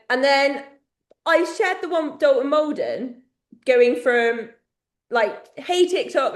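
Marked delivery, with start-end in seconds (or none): 5.6-6.3 imitated British TikTok greeting; higher-pitched British accent. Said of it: "like, in a British accent".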